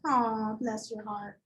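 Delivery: slow, syrupy "Aw, bless your heart"; sugary mock sympathy. Shown as a demonstration. Teacher performing the Southern euphemism, slow and syrupy. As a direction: drag it out, sweet and pitying. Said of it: "Have you guys ever heard that".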